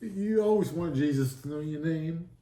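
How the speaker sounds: choked up, with long pauses; real tearing up. Real, not acted. Man moved by Jesus knowing his name, tearful. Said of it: "tearing up now, trying not to cry now".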